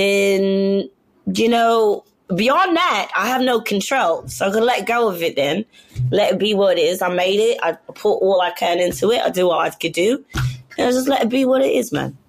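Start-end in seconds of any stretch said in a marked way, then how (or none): 6.1-12.2 easy London Cockney lilt; Cockney accent. Real, not acted. Artist telling host how she lets go, Cockney accent. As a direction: let the Cockney side out. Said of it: "I love this Cockney side".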